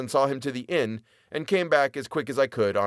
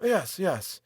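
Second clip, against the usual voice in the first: quick eager yes; hurried; 8 semitones higher than usual. A narrator's reading. Visitor hurriedly agrees, a hint of haste. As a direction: rush the words out. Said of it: "he said hurriedly".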